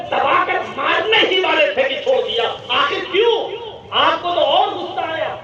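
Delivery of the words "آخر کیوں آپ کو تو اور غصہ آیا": puzzled question. Acted. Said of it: "کہنے لگا".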